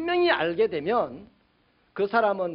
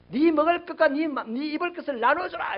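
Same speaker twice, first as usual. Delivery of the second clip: raised, forceful shouted command; John the Baptist; 6 semitones higher, 4 dB louder than usual. Retold or imitated. John crying out to the rich, shouting. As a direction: call it out high and hard. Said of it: "이렇게 소리쳤단 말이에요".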